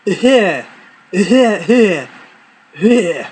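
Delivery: fake cough. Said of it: "in the best acting skills that my father could muster up".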